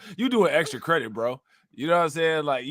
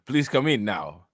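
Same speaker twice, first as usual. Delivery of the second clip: slow, low-pitched mock order; drawn-out polite command, understated; demand posed as request; 4 semitones lower than usual. Imitating how Russians ask questions, slow understated demand. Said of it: "that's how they ask questions".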